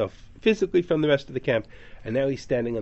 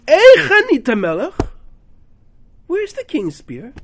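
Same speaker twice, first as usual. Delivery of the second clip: taunt; 14 semitones higher, 10 dB louder than usual. Retold or imitated. David's taunt repeated.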